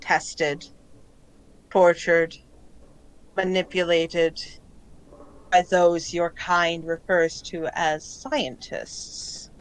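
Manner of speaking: measured list with long pauses; deliberate, placid otherworldly testimony; calm collective voice. Acted. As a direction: recount it slowly and evenly, word by word. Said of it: "the tone is very calm".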